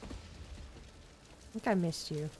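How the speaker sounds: slow, soft whispered aside. Acted. Player testing the box, whispering to themselves. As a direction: breathe it almost silently.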